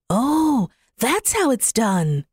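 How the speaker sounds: lightly voiced little bird, a lift on the first word; a hint of a chirpy thrush. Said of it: "said the thrush".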